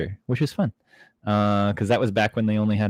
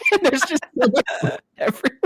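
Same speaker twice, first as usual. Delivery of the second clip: high, breathless laugh through the words; real giggling fit mid-sentence; cracking up; 3 dB louder, faster than usual. Real, not acted. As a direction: tell it while helplessly laughing. Cracking up at skit memory.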